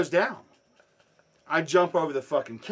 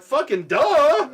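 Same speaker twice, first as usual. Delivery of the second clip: loud, high, drawn-out taunt; hammed-up yelled "obviously"; mocking comeback; 13 semitones higher, 12 dB louder, much slower than usual. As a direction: stretch it out slowly as a jeering retort. Retold mocking comeback to robber.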